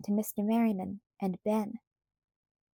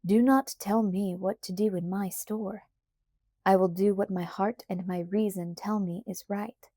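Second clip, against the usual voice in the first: firmly. Acted. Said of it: "said Mister Merriman firmly".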